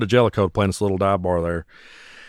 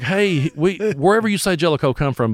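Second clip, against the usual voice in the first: put-on placating the drunk; 8 semitones higher than usual. Placating the angry drunk man.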